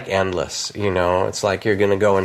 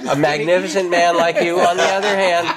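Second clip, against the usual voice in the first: playful teasing; 6 semitones higher, faster than usual. Real, not acted.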